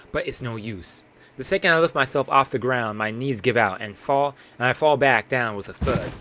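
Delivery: plain, even read of the collapse; lightly acted exhausted narrator; story narration. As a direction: narrate the struggle steadily. Reads the collapse in the alley.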